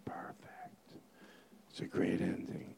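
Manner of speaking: hushed, very soft whisper. Real, not acted. Host confiding after the show's ending, whispering. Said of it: "leave this whispering part in".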